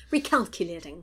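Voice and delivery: lightly snippy satnav announcement; bitchy GPS voice. Acted. Joking satnav to a driver off route, bitchy tone. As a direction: say it like a peeved satnav. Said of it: "she says in a really bitchy tone".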